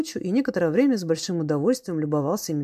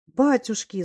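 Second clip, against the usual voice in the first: отчаянный вопль; 6 semitones higher, 3 dB louder, slower than usual. A narrator's reading. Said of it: "завопила режущим, полным отчаяния голосом".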